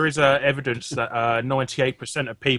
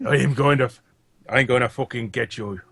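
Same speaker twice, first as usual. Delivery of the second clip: Liam Neeson; 4 semitones lower than usual. Retold or imitated. Co-host imitating Neeson's angry Clash ad line, mild menace. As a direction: threaten like a one-note action hero, lightly. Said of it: "I, I am Liam Neeson".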